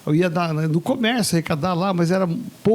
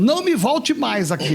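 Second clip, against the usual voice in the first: angry boss; 6 semitones higher than usual. Retold or imitated. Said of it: "Ele falou assim".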